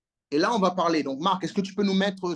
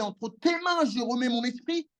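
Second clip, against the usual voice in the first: Jesus' last words; 5 semitones higher than usual. Acted. Preacher voicing Jesus' last words.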